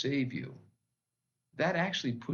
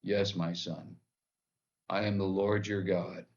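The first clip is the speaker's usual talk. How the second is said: a hint of a booming God; calm, solemn voice from above, lightly voiced; 4 semitones lower than usual. God answering the man from above, lightly booming. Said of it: "this booming voice says".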